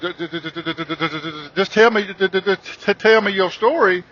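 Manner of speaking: stammering every first sound in fright; terrified, trip over each word; scared stuttering. Retold or imitated. Man begs the ghost to tell its story, stuttering in fear. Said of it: "I'm stuttering and shit".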